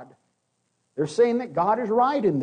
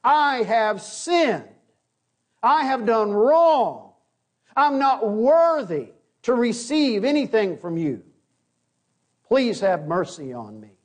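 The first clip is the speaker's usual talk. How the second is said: humble confession. Shown as a demonstration. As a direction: sound broken and sorry before God. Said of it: "that's what it sounds like".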